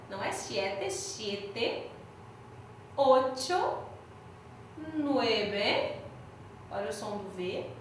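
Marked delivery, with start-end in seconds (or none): 0.1-1.9 "siete" with a closed e, not an open è. Shown as a demonstration. Teacher contrasting open and closed E in "siete". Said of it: "não abre o E".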